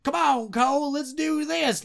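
high, whiny New York hick impression; mock New York hick. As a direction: ham up a bad New York hick dialect. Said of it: "dialect that they're going for".

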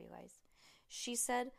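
plain reading voice

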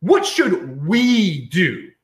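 very slow, drawn-out "What should we do?", stretching each word; mocking, slow-motion hand-wringing; mock collectivist question. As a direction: drag it out like a worried committee member.

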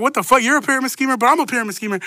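high, incredulous retold protest; mock disbelief. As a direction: act out two baffled rivals. Two schemers confront each other.

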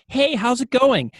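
high, loud, drawn-out chirpy greeting; overly cheery. Retold or imitated. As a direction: imitate a too-cheery coworker. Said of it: "that overly cheery person that you work with".

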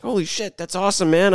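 high, breathless fanboy gush; geeked out. Retold or imitated. Retelling meeting a fellow fan, high geeked-out gush. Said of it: "totally geeked out".

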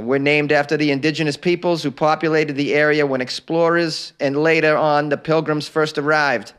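put-on light Boston accent reading. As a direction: read it like a Boston local. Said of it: "read a little bit about National Masshole Day in a Boston accent".

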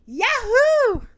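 high, loud whoop; overjoyed. A narrator's reading. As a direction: cheer with puppy glee. Puppy thrilled at invitation.

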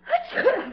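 small feigned sneeze; put-on hay-fever sneeze; fake sneeze. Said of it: "I just sneezed".

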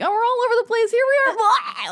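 hammed-up chaotic host voice; scatterbrained self. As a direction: play yourself as a giddy mess. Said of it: "and I'm more like".

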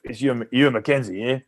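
lightly imitated Australian accent. Australian coach introducing himself on the phone, in a light Australian accent. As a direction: introduce yourself with a touch of Australian. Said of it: "an Australian accent on the phone".

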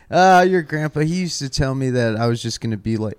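put-on light southern accent dad. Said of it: "I'm doing a southern accent".

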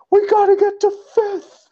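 high, urgent cop voice; urgent high-pitched order; Jim Gordon. Retold or imitated. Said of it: "Jim Gordon's like".

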